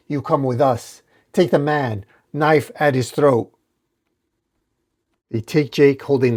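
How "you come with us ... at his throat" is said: lightly raised threatening order; mild mock yell. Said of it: "one of them yells at Batwoman".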